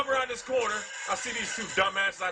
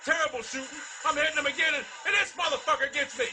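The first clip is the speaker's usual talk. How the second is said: raging gamer; 2 semitones higher than usual. Real, not acted. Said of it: "raging at Call of Duty".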